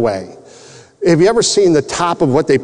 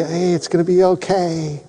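higher, softening brave reassurance; retold bravely upbeat comforting; 6 semitones higher, 3 dB quieter than usual. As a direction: put on a brave face to comfort her. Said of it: "And I'm bravely".

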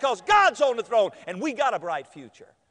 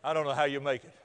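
gloomy preacher; 8 semitones lower, 6 dB quieter than usual. Retold or imitated. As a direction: drag it out low and grave, like a doomsaying preacher. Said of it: "We preachers get up sometimes".

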